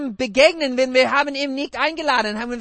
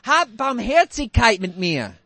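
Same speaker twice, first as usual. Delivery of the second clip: pleading for mercy; 3 dB louder than usual. Retold or imitated. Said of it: "Und dann er sagt".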